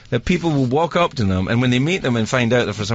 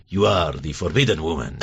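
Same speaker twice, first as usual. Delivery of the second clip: mock soap drama; 10 semitones lower than usual. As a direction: purr it like a soap hero. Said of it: "a little bit kind of".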